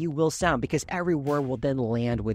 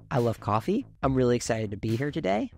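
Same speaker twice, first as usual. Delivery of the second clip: "coffee" and "today" lifted at the end, unsure; upward inflection at sentence end; 3 semitones lower than usual. Shown as a demonstration. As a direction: let "coffee" and "today" rise like questions. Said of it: "avoid inflecting your tone upwards".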